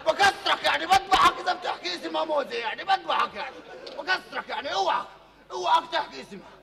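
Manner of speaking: loud, laughing threat; mock threat. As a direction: warn him off half in jest. Threatens not to say mother's name. (تهديد ساخر بصوت عال)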